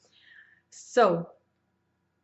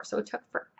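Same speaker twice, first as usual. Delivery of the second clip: whisper; 3 dB quieter, much faster than usual. Real, not acted. Whispered aside about traffic.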